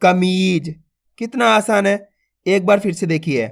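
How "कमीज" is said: कमीज with a stretched मी; कमीज blended with a long second syllable; drawn-out long vowel. Shown as a demonstration. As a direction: hold the ee in कमीज. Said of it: "तो खींच के पढ़ेंगे मी".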